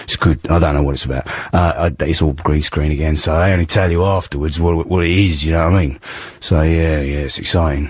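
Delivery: hoarse London hard-man voice; Ray Winstone impression. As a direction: play a tough geezer with a sore throat. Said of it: "I'm Ray Winston".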